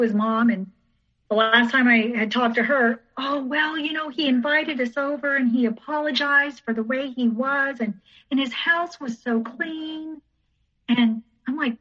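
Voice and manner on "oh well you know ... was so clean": higher, singsong mock of a mother; imitated excusing mother. Ex's mother defending her son, higher mock-pleasant voice. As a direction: play a mother making light excuses, pitched up.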